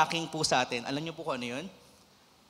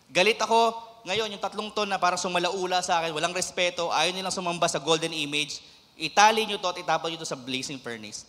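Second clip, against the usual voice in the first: higher, louder furious royal command; preacher voicing the enraged king ordering the furnace; angry king; 3 semitones higher, 4 dB louder than usual. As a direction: rage at the three like Nebuchadnezzar. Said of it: "voicing the angry king".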